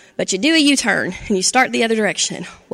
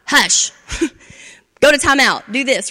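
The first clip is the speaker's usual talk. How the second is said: impatient mom; 3 semitones higher, 4 dB louder than usual. Retold or imitated. A mom hushing her child off to timeout, mock impatient. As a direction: brush the kid off as a mock mom. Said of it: "and the mom's like".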